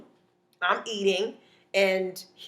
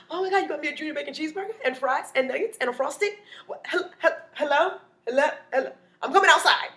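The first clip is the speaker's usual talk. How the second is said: high, hurried food excitement; acted eager rush to say yes; excited acceptance; 6 semitones higher, faster than usual. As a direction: gush over free food, pitched up. Acted delight at offered food.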